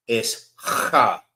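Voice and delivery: ha from the back of the throat, like hawking up spit; throaty ha. Shown as a demonstration. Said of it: "Sound like you hawking up some spit".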